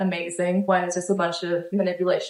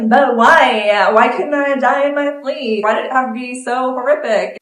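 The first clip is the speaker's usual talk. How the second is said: raised, higher pleading cry; anguished protest; 4 semitones higher, 4 dB louder than usual. Retold or imitated. Retelling her plea to God, a loud anguished protest. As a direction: demand an answer from God, heartbroken. Arguing with God after violent death.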